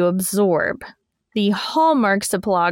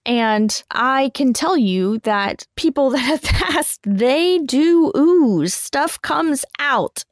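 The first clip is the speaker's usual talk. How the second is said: laughing; 5 semitones higher, slower than usual. Real, not acted. Laughing ooze story.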